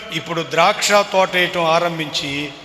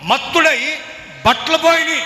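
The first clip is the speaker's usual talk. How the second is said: high, loud mocking lament; mock him in a shrill sing-song; mocking mother; 10 semitones higher, 3 dB louder, faster than usual. Mother scoffing at the drunk uncle, high mocking.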